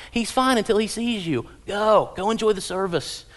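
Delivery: mock insistence, easing off from a high pitch; exasperated nursery worker. Nursery worker sending parent back to church, lightly acted exasperation. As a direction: wave the parent along. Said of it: "the nursery worker's saying".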